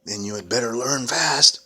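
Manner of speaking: loud stern hag; angry witch. Acted. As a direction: snap it like a cruel witch. Witch threatens.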